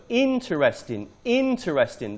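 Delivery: "interesting" twice, IN stressed; stress on first syllable. Shown as a demonstration. Teacher recording pronunciation feedback, stressing first syllable. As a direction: lean on IN in "interesting", then repeat it. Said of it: "The stress is on the first syllable".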